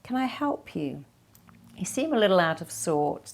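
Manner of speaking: caring, light offer; the right way, mildly caring; calm offer of help. Shown as a demonstration. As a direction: ask gently and openly.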